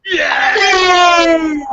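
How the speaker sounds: high loud cheer; yay shout. Shown as a demonstration. Leading the group cheer: loud high yay. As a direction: throw your arms up and shout yay. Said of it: "Everybody do that with me now".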